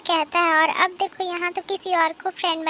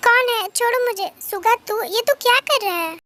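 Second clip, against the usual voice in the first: startled, higher-pitched protest; raised voice; 4 semitones higher than usual. Acted. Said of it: "इतना तेज मत बोल". (चौंककर ऊँची आवाज़ में)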